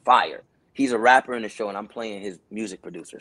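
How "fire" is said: slow, low amazed voice; awed. Retold or imitated. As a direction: savor it slowly. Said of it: "I'm like".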